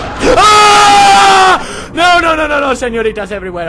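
high frantic yelling; panicked shouting. Real, not acted. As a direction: shout in alarm. Panicked at game creatures.

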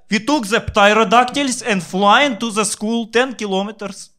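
put-on very high, cracking old-woman voice; great grandmother. Great-grandmother outdoing grandma's story, very high shrill voice. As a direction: squeal like an ancient granny topping the boast. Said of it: "she's like".

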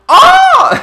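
loud, high, piercing gasp shriek; shrill excited gasp. Real, not acted. Gamer thrilled by the game area, gasping loudly at her friend. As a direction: blurt out a startled gasp far above your normal pitch. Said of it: "that hurt my ears".

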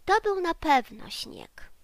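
high, loud friendly certainty; smiling. Acted. The clown Bim Bam Bom smilingly explains it to the bear. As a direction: say it with a knowing smile. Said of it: "uśmiechnął się pajacek Bim Bam Bom".

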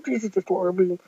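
Jesus villain voice. Acted. Jesus threatening Bob Wobble Wobble before firing his beam. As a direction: growl it down low like a toy villain.

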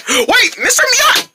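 high-pitched cry after him; urgent calling. Acted. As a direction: gasp and call him back. Neighbor says bye and leaves.

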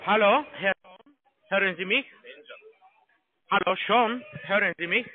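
the same caller lightly playing his own boss; posing as the manager. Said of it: "ich gehe zu meine Manager".

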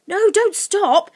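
high, loud, drawn-out plea; urgent Lucy. Acted. Lucy begging Sniff to continue, urgently. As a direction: urge on slowly in a high girl's voice.

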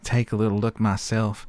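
put-on Southern belle accent; hammy Southern chef, slowing at the end. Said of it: "the local chef in Southern Belle".

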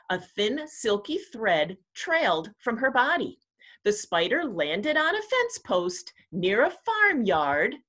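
measured picture-book narration with lifted key words; storytime read-aloud. Acted. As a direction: read it aloud to young children. Reads a picture book to children.

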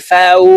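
"ফাউ" ending on a rounded w; rounded waw. Shown as a demonstration. Teacher drilling Arabic letters, rounded waw. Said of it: "ওয়াও হরফকে গোল করে উচ্চারণ করব".

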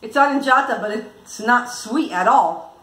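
talking with chocolate in mouth. Real, not acted. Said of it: "because I have chocolate in my mouth".

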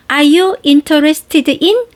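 slow, clear, one word at a time. Shown as a demonstration. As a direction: say "Are you interested in?" word by word, deliberately. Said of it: "이렇게 또박또박 하셔도 괜찮아요".

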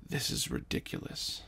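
soft unvoiced whisper. Lance whispering to his son, hushed whisper. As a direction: whisper it aside.

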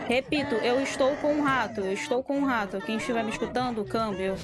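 like calling over a walkie-talkie; mock radio operator. Mock radio call to team.

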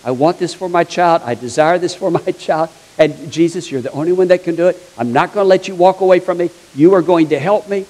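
insistent mother pleading her case; mildly acted, determined demand; persistent. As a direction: keep pressing without letting up. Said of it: "being persistent, staying on you".

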